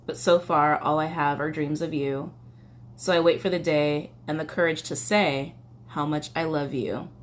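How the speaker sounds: slow, even verse recital; lyric reading. Acted. Reading a love confession from lyrics, slow recital. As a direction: read each line slowly with space between. Reads song lyrics aloud.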